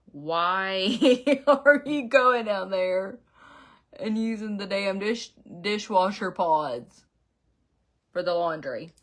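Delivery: slow, drawn-out Southern drawl, polite and cautious. Retold or imitated. Wife imitating Devin's polite Southern drawl, drawn out and slow. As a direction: imitate the husband's gentle Southern drawl, stretching every word. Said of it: "Devin's drawn out southern voice".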